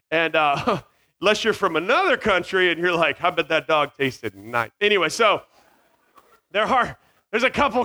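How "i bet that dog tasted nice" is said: low, slow mock relish; lightly put-on appreciative aside; sly dog eater. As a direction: say it slowly as if savoring a meal. Voices foreigner eyeing dog as food.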